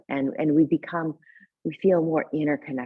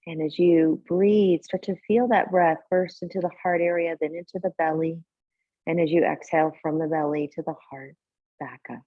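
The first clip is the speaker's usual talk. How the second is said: calm guiding voice with long, unhurried pauses; guided meditation. Real, not acted. Teacher settling a yoga class into tonight's practice, guided meditation. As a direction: ease them gently into breath and body awareness. Leads seated breathing meditation.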